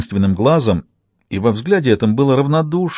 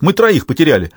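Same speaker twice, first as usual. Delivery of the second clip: raised, aggrieved objection; indignant protest; 5 semitones higher than usual. A narrator's reading. Soldier reminding commander of lost men, indignant. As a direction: argue back, stung. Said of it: "вскинулся Пономарёв".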